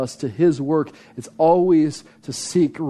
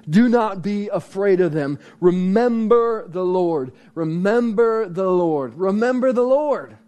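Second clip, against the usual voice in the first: emphatic scripture quote; 5 semitones higher than usual. Acted. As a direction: drive home the rallying verse. Preacher quoting rallying verse emphatically.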